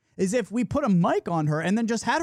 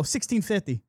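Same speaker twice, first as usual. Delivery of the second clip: deadpan. Retold or imitated. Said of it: "with a seriousness and a deadpan".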